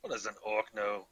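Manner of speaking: scornful, lightly put-on Scottish burr; horrible Scottish accent. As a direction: scoff in a mock Scottish accent. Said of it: "back to my horrible Scottish accent".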